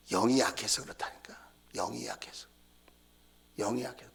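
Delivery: breathy whisper, almost no voice. Real, not acted. Pastor confiding to the congregation in a hushed whisper. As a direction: lean in and whisper it like a secret.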